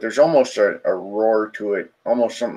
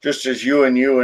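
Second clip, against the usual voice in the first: deep throaty spirit. Acted. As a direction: announce yourself like an ancient, animalistic spirit. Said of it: "in this deep, throaty voice".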